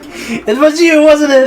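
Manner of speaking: high, drawn-out mock accusation; theatrical accusation. Hamlet accusing the culprit, high theatrical accusation. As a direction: stretch it out in hammed-up suspicion.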